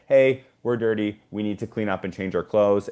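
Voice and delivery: light, upbeat, matter-of-fact tone; neutral and matter of fact. Shown as a demonstration. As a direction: keep it calm and neutral, no blame. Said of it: "It's just to say".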